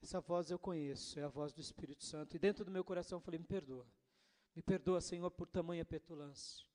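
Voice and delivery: hushed repentant voice; humble prayer. Retold or imitated. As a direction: pray with quiet remorse. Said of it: "respirei e falei".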